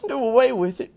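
high, loud outraged screech; shrieked horrified question. A narrator's reading. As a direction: screech it in disbelief as a little girl. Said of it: "screeched Fern".

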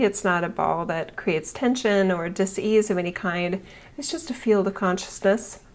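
calm her listeners into their bodies; soothing massage murmur. Acted. Guided visualization continues.

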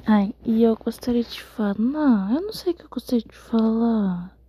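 sleepy whisper; drowsy hushed whisper. Real, not acted. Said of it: "eu tô sussurrando porque eu tô com sono".

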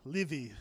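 "Livy" gently voiced like the start of liver; child's Livy for Libby. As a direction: imitate a toddler saying "Livy" instead of Libby. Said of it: "like liver".

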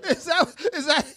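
high, loud incredulous question; can't believe what he heard; shocked disbelief. Real, not acted. Shocked reaction to crude joke.

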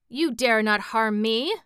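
loud croaking witch; croaking old hag. A narrator's reading. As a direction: spit it out like a cornered hag. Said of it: "croaked the old hag".

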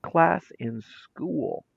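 slow, cold verdict; a hint of a stern principal. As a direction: pronounce the judgment deliberately. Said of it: "pointed at my class and said".

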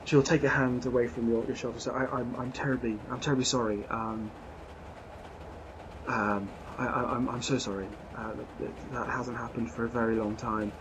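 a hint of a flustered, apologetic lady; lady barely shifted from the narrator's voice, apologising; lightly voiced lady passenger. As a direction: play the refined traveller, shaken and sorry.

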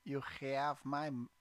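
badly faked Arab accent sliding into Russian. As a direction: put on a bad Arab accent. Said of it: "that's my Arab accent".

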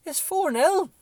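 high, loud, slow cracking shout; voice cracking with excitement. Retold or imitated. Fan telling his wife the score, cracking excited shout. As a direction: near tears with joy, voice breaking. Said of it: "my voice is cracking".

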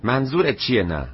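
high-pitched, astonished question; astonished cry. A narrator's reading. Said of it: "مادرش از تعجب ... و فریاد زد". (با تعجب و صدای زیر)

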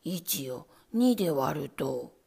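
low, very slow, trailing off; lightly voiced rat, faltering; stalling rat. A narrator's reading. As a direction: start the sum and lose the thread. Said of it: "また詰まってしまいました".

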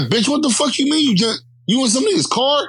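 very high imitation of an outraged friend; screechy-high mock disbelief, no real shout; incredulous homegirl. Homegirl reacting to her friend's news, incredulous high voice.

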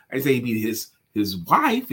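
"his" and "wife" leaned on; stress on HIS. Shown as a demonstration. Suggesting it was someone else's family, stress on "his". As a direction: point at whose wife it was. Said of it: "could have been his child".

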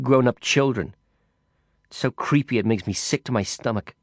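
a hint of a disgusted woman; disgusted drunk woman, lightly voiced. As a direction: spit out the disgust, half drunk. Woman rants about children.

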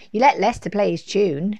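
loud, accusing complaint; child's protest. A narrator's reading. Laura complains Lester got his turn, loud protest. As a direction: object loudly to the unfairness.

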